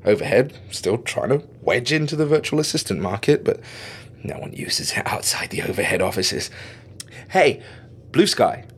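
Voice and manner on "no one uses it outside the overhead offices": whispered aside. Acted. Aside about the speaker.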